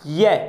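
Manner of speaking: ਯੈ said alone, low and held, as a model; sounding out the letter. Shown as a demonstration. Teacher models ਯੈ for the children, low and deliberate. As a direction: demonstrate ਯੈ with the middle of the tongue rising to the palate. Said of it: "ਯੈ ਦਾ ਉਚਾਰਨ ਕਰਕੇ ਵੇਖੋ".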